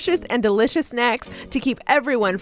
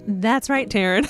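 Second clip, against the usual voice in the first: game show voice; 2 semitones lower than usual. Pretend. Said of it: "My, like, game show voice came out".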